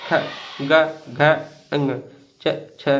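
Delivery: क ख ग घ fast with no full vowel; half-pronounced letters, quick; clipped fast letters. Shown as a demonstration. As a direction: rattle the letters off short. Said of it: "ऐसे पढ़ते हैं".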